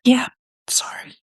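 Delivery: snotty crying, apologising through tears; sniffly, tearful and embarrassed; ugly crying. Real, not acted. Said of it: "I'm ugly crying right now".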